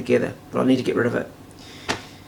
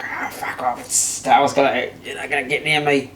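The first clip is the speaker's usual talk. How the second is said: cat's voice; 4 dB quieter than usual. Retold or imitated. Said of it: "and the cat's like".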